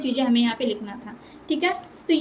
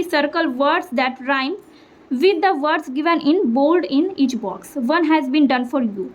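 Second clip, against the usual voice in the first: slow textbook reading; much slower than usual. Acted. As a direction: read the instruction slowly. Reads textbook instruction.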